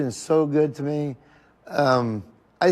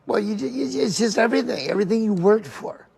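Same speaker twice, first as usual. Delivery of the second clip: tearful laughing; 5 semitones higher than usual. Real, not acted. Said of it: "I get happy and I get emotional".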